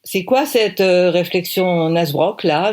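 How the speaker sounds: irritated retort; annoyed. Acted. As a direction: challenge the tasteless remark. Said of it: "énervée".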